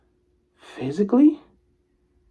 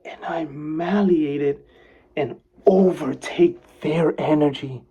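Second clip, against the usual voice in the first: calm whisper. Shown as a demonstration. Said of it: "I bring mine into it".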